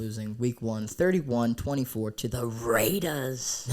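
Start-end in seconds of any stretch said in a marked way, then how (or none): 2.5-3.7 slow, with a voice crack. Real, not acted. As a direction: voice cracking on the score. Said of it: "Little voice crack there".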